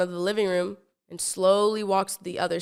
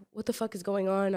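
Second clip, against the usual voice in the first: hushed shock; 7 dB quieter than usual. Retold or imitated. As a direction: whisper it under your breath in shock. Scared, bloody scene unfolding.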